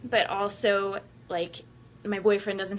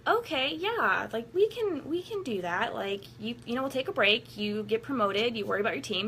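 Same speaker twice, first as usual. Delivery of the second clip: naive past self; 3 semitones higher than usual. Retold or imitated. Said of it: "how goddamn naive I was to be like".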